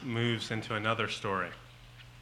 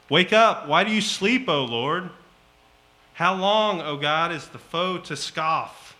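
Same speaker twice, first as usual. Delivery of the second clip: loud, much higher shouted plea; yelling at God; 5 semitones higher, 9 dB louder than usual. Acted. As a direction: shout it up at a sleeping God, demanding. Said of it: "yelling these things at God".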